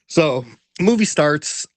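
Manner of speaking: usual speaking voice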